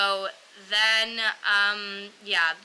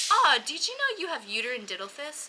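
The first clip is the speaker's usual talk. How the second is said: higher, breezy imitation of a doctor; mock casual doctor; 7 semitones higher than usual. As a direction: announce it lightly, pitched up. Imitates doctor breaking news casually.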